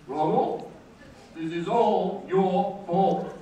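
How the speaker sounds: slow, put-on accusing voice; Scott. College arch enemy blaming the speaker, drawn-out accusation. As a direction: drag out the blame like a pompous rival. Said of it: "Here is his catchphrase".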